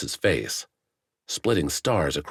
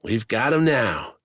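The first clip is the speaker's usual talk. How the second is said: excited; 6 semitones higher, 3 dB louder than usual. A narrator's reading. Wax exults in the fight.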